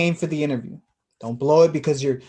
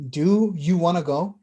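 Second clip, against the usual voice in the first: angry challenge; 3 semitones higher, 4 dB louder than usual. Acted. Heated argument, calling out.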